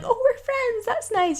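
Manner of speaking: high-pitched cooing delight; sweetly pleased, pitched well up; retold delight. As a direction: coo as if charmed by a cat. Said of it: "I'd be like".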